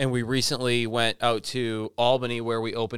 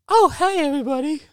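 imitating a radio voice much higher and louder; mock radio voice; 6 dB louder than usual. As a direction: parody the co-host's high radio greeting. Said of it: "Your voice went up an octave".

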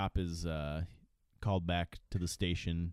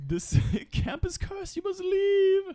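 slow, much higher, ominous drawl; creepy old man voice; 5 dB louder, slower than usual. Retold or imitated. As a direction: sound like a crazed prophet. Ralph warns of curse.

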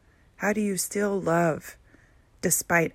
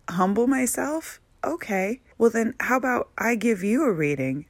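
incredulous retort; 5 semitones higher, 4 dB louder than usual. Retold or imitated. Answering the psychic who told her to be humble, incredulous. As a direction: throw her words back in disbelief. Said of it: "I was like".

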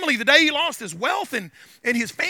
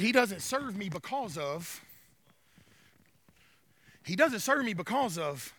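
low, soft, deliberate statement; God speaking; 6 semitones lower, 12 dB quieter than usual. Retold or imitated. God defending Job to Satan, low and soft. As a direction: say it slowly and quietly, stopping short.

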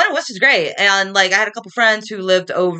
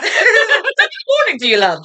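much higher, laughing Irish lilt; mock Irish accent; 10 semitones higher than usual. Co-host echoing the Irish greeting, high mock Irish accent. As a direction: echo it in a giggly fake brogue. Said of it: "start talking like you're from Dublin".

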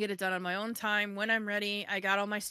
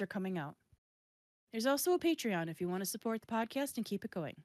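measured, scripted host sign-off; podcast outro read. Real, not acted. Host thanking guest and fans, scripted outro read. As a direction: read it cleanly, pausing between announcements.

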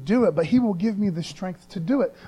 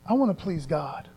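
softer, inward vow; soft resolve; 3 semitones lower, 5 dB quieter than usual. Shown as a demonstration. Speaker modeling a believer's inner vow, softly. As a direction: say it quietly to yourself first.

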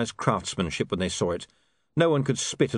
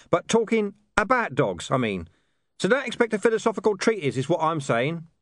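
high-pitched character voice; 10 semitones higher than usual. A narrator's reading. Hidden speaker makes excuses for an old dog, explanatory. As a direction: explain it from hiding, pitched well up.

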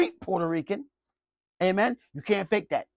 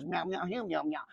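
mock gibberish meow; 2 semitones lower, 11 dB quieter than usual. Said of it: "it's just gibberish".

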